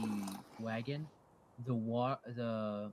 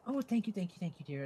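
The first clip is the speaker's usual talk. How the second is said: Erin thanking; 6 semitones higher than usual. Acted. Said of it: "she goes".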